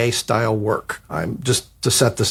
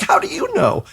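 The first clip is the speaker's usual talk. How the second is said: very high squeal of worry; panicked. Retold or imitated. Writer doubting the agent, squealing panic. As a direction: squeak it out in alarm.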